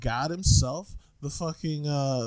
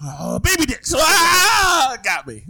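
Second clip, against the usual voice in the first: laughing cry; 11 semitones higher, 8 dB louder, much slower than usual. Real, not acted.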